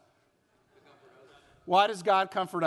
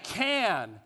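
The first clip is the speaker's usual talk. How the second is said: outdoor voice; slower than usual. Shown as a demonstration. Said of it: "say that with our outdoor voices".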